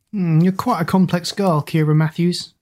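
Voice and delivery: amused, with a light chuckle; chuckling. Acted. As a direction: tease her with a little laugh. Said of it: "Zack chuckled".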